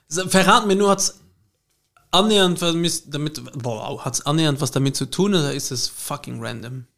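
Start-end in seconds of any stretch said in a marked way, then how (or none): 2.1-4.0 slightly slurred, tipsy speech; words running together a bit; slurring. Real, not acted. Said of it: "Ich lalle". 4.0-6.8 tipsy slurred question; slurring. Real, not acted. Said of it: "Ich lalle".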